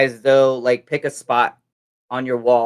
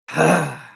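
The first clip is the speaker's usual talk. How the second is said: frustrated sigh; 3 semitones higher than usual. Shown as a demonstration. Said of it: "big breath and just".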